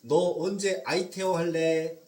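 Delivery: slow, teasing request with a wink; playful ask. Retold or imitated. Pastor mimicking a lender teasing the debtor with a Greek word, playful. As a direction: coax it out playfully and slowly. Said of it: "이렇게 얘기하는 것보다".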